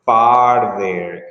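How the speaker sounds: far said low and stressed; teacher contrasts the distance word, stressed far; far there as distance. Shown as a demonstration. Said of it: "When it's about distance, we say".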